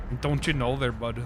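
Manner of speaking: hammed-up Midwestern accent, vowels dragged out. Shown as a demonstration. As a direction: play up a folksy Midwestern accent. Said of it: "my wonderful Midwestern accent".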